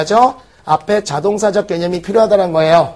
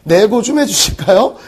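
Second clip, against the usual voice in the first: refined request. Retold or imitated. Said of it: "이렇게 얘기하는 게".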